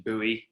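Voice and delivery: "Bowie" said as BOO-ee, in two syllables; "Bowie" with an ee ending; American pronunciation. Shown as a demonstration. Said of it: "the American pron-, pronunciation".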